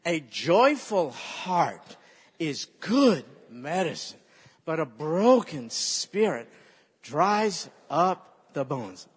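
slow, measured, word by word; the whole verse, slowly, for the church to repeat; slow recitation. Shown as a demonstration. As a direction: recite it so they can memorise it. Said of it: "let's do all four phrases".

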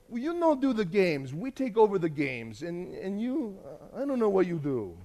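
imitated accented leader, halting at the end; foreign camp leader. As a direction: imitate a leader laying down terms. Voices the camp leader deciding.

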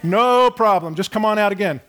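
fake-patient and overly nice; mock gracious. Pastor mock-graciously telling the no-show roofer it's fine.

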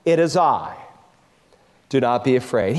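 tender reassurance. Acted. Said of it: "came a voice that they could instantly identify".

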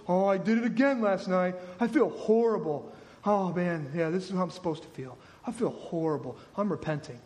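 low mock wallowing in guilt; mock feeling bad. Sinner who did it again last night, mock remorseful. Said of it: "Repentance isn't feeling bad".

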